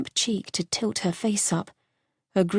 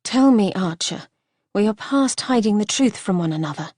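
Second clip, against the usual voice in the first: rough voice; 2 semitones higher than usual. Acted. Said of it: "her voice came out rough".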